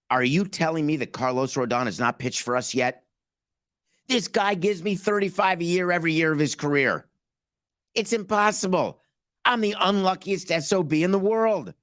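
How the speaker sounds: lightly voiced GM pleading his case; mock Brian Cashman. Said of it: "my name is Brian Cashman".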